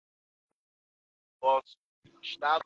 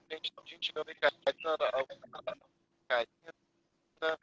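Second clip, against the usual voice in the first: choppy breaking-up call audio; corrupted glitchy audio; 5 dB quieter than usual. Real, not acted. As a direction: voice cutting in and out. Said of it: "o áudio tá picotando".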